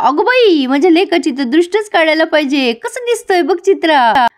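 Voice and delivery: a mother swooning proudly over her son; gushing mother. Acted. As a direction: gush over the son's new look. Mother gushing over son's look.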